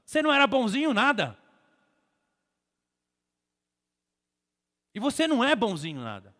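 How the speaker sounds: emphatic, high-pitched sermon retort; forceful preaching rebuke. Real, not acted. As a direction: knock the excuse down in front of the congregation.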